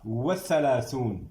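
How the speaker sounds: slowly, every syllable clear; drawn-out teacher answer; slow dictation. Shown as a demonstration. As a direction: dictate it for students to copy. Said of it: "ہم کیا بولیں گے".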